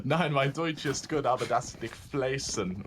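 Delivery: halting German with an Australian tinge; German in Aussie accent. Shown as a demonstration. Caster showing off his German, Australian-tinged accent. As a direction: attempt German while stuck in Aussie. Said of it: "Speaking German in an Aussie accent".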